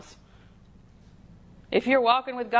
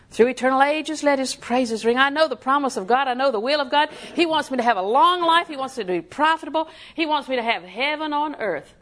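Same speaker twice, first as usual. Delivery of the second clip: raised, ringing preacher's delivery; fervent preaching; 4 semitones higher than usual. Real, not acted. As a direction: declare it with conviction to the congregation. Preaches with rising force.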